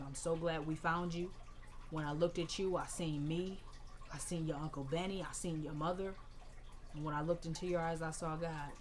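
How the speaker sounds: imitating a grandmother's soft goodbye; tender grief. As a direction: speak gently to the dead grandson. Grandmother grieving over casket.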